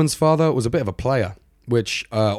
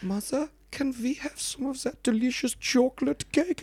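begging siblings; 6 dB quieter than usual. Retold or imitated. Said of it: "his siblings would be like".

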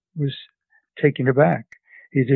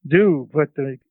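put-on grandmother laying down the law in a Central European accent; grandmother's Central European accent. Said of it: "That's how she talked".

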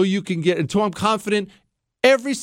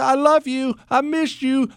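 higher, sing-song wifely goodbye; mock wife goodbye; 11 semitones higher than usual. Husband mocks his wife's long phone goodbyes, higher sing-song. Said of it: "the wife wants to do that".

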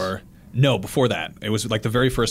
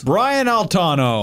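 slow, higher hammed-up cowboy host; John Wayne voice; 6 semitones higher, much slower than usual. Pitching giveaway prizes to listeners in a hammed-up cowboy host voice. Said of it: "John Wayne voice".

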